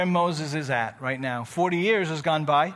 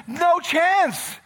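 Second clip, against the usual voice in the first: flat refusal; 10 semitones higher, 4 dB louder than usual. Retold or imitated. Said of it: "He says".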